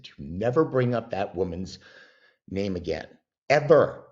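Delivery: firm warning, landing loud on "ever"; emphatic retold order with a forceful final "ever"; retold stern warning. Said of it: "It's too painful for me".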